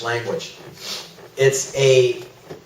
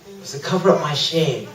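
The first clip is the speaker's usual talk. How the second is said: softer, sober repeat; quiet confession; 6 dB quieter than usual. Real, not acted. Preacher admitting his works covered shame, quietly. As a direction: let it drop softly.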